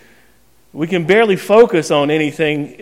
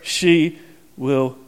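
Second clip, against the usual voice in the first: mock dire warning; 4 semitones lower, much slower than usual. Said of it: "she has said".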